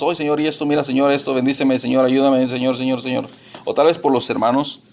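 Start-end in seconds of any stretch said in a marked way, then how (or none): 0.0-3.3 mock rattled-off prayer in a monotone; nonstop chattering prayer. Preacher mimicking believers who only talk to God, nonstop chatter. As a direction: run the pleas together without a breath. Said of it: "Hablar, hablamos, hablamos, hablamos".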